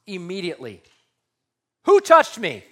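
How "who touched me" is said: loud, high sharp question; Jesus demanding loudly who touched him; forceful demand. Acted. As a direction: stop the crowd cold. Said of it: "I don't know if it was that forceful".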